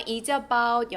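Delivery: "Is about" run together as one word; linked sounds. Shown as a demonstration. Teacher shows students how to link, "Is about" joined. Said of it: "연음됩니다".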